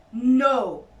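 loud, drawn-out astonished no; disbelief. A narrator's reading. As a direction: gasp it out in disbelief. Badger reacts in disbelief.

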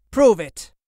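loud, high defiant retort; hissed challenge. A narrator's reading. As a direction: throw down an angry challenge. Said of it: "Lord Percy hissed".

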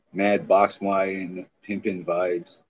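"Mad box wine" stretched out slowly; slow, relishing "pimpin' vibes"; slow drawl. Shown as a demonstration.

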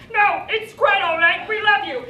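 hammed-up British accent, sweetly forgiving; mock British parent. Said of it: "tell that to your accent".

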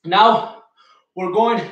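panting between words; out of breath. Real, not acted. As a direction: talk while breathless after a set. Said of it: "I am out of breath".

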